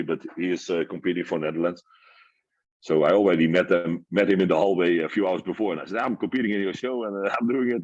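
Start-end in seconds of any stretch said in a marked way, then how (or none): 6.0-7.8 excited laughing. Retold or imitated. Telling his idol, laughing.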